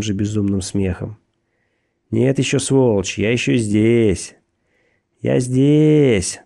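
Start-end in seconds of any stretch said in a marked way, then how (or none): 2.1-6.4 rising into a shrill yell; louder and louder, unhinged; building mad shout. Acted. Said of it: "Он кричал всё громче и пронзительнее".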